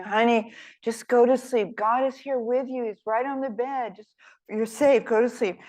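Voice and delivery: lightly voiced mom coaxing her child to sleep; gently hushing a scared little girl; mother soothing.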